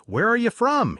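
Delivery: loud and high, pushy; drunken shout. Retold or imitated. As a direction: demand it while staggering. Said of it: "he'd asked".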